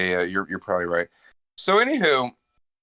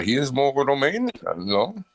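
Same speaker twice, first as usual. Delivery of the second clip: mock vampire count, drawing it out; Dracula; slower than usual. To his podcast friend, a slow mock Dracula voice. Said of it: "I can do it as Dracula".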